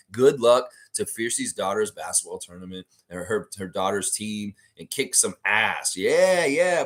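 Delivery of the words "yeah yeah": hyped rising yeah; excited yeah. Real, not acted. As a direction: pump it up. Hype for daughter.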